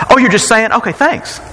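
mock gratitude. Imagined grateful reply, mocked.

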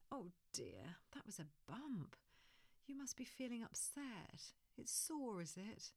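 gentle half-whispered comfort; soft empathy. Shown as a demonstration. Parent comforts fallen toddler in soft whisper. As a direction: lean in softly to the hurt. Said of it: "Lean into that frustration".

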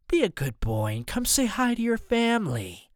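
high singsong mock coaxing; villain's taunt. A narrator's reading. Villain taunts hidden boy.

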